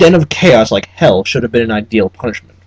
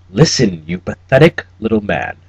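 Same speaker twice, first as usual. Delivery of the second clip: cold German menace; 2 semitones lower than usual. Acted. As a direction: cut him down in a cold German accent. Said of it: "Cabal's accent was clipped and fatally Teutonic".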